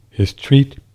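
hiccup interrupting the words. Real, not acted. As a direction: say it through a hiccup. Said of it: "excuse me, I got the hiccups".

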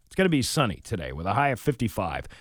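quick on-air forecast read; weather report read. Acted.

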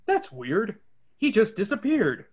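barely change the voice for Fred; lightly voiced Fred. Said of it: "Fred says".

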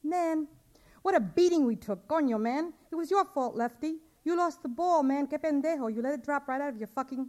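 put-on loud, high, rowdy teenage trash talk; teasing a teammate for dropping the ball, loud and rowdy; rowdy teen boy. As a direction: razz your buddy after losing the game. Boys' rowdy trash talk after losing.

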